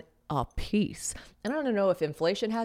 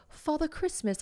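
mock British; 10 semitones higher, 4 dB quieter, slower than usual. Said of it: "which is hilarious to me".

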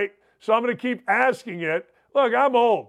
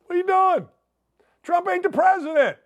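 exasperated; 9 semitones higher than usual. Real, not acted. Exasperated at a caller.

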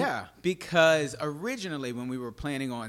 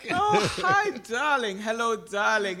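breathy vintage purr; 10 semitones higher, 5 dB louder than usual. Pretend. Gushing greeting to co-host.

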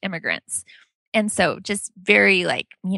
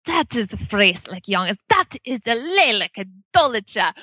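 blunt Dutch grandma. Retold or imitated. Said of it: "in her Dutch accent".

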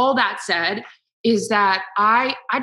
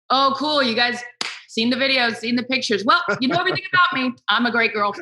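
mock cheerful sarcasm; 4 semitones higher than usual. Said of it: "So saying like".

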